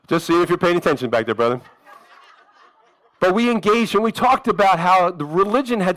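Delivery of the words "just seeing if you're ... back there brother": chuckling through the words; laughing. Real, not acted. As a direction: laugh as you tease the listener. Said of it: "laughing at his own joke".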